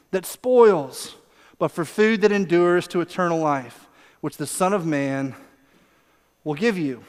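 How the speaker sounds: unhurried, tender teaching; gently acted reassurance; gentle. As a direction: ease down slowly into a calm promise. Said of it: "Jesus, so gently".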